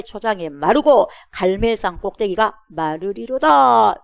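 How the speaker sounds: 선포하듯 읽는 성경 구절. Acted. Reads Bible verse with drawn-out ending.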